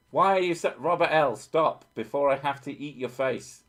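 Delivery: loud, high mock threat; mock angry. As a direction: playfully threaten to eat their face.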